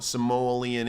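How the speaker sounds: Samoan slowed into "suh-MOH-lee-un"; muddled Samoan. Shown as a demonstration. Streamer confused by the names, Samoan as "suh-MOH-lee-un". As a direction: slip an L into Samoan, drawn out. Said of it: "I don't even know what".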